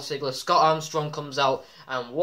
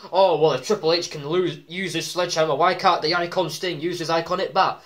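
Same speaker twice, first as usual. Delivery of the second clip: indignant retold gripe, emphatic; mock complaining; 4 dB louder than usual. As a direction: lightly imitate annoyed fans. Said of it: "a lot of people were pissed because".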